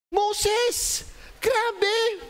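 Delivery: high, excited cry of the name; excited shout. Real, not acted. Pastor cheering a quiz answer, excited high shout. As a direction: blurt it out, thrilled to know.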